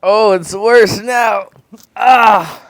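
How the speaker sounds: pained gasping from the heat; strained and loud, mouth on fire; mouth burning from spicy food. Real, not acted.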